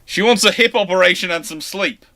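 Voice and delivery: ordinary talk, nothing marked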